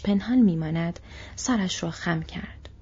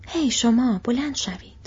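a brisk barked order, raised pitch; orc shout; 4 semitones higher than usual. Acted. Orc slave-driver shouting at two soldiers, barking. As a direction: call them up sharply like a guard. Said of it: "فریاد کشید".

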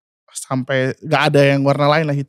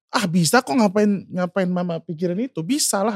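higher-pitched, lightly insistent soothing; retold reassurance; 4 semitones higher, 3 dB quieter than usual. Child telling mama not to worry, high retold reassurance. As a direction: quote someone brushing away mama's worry. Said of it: "berusaha buat nenangin".

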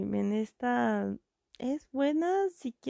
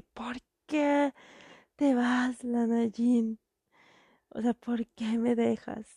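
heartbroken plea. Retold or imitated. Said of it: "él se queda así como de".

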